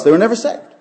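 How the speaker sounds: emphatic preaching. Real, not acted. Preacher concluding they were never saved, emphatic preaching. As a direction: drive the point home loudly. Preacher drives home his point.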